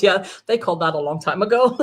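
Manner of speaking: amused reply breaking into laughter; retold laughing reply. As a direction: imitate someone chuckling as she answers. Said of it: "she laughs and she goes".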